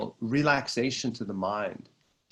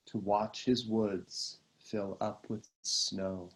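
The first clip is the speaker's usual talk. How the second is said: unhurried poetry reading, sinking at each line's end; poem recitation. Acted. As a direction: repeat the stanza calmly, feeling the cadence. Repeats the poem's opening stanza.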